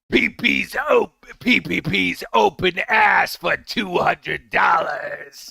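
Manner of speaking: shouted demon voice; Exorcist demon voice. Acted. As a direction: shout it possessed. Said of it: "in the Ashton voice".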